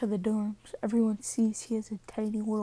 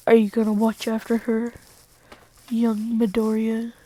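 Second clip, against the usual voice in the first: booming question; 8 dB louder than usual. Retold or imitated. Mentor asking Deku to look after Eri, loud booming question.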